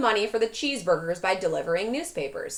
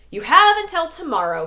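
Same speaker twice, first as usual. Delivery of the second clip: high, loud upset demand; cried angrily; 7 semitones higher, 9 dB louder than usual. A narrator's reading. Upset coach cries out his deadline to Lewis. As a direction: lay down the deadline. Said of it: "he cried".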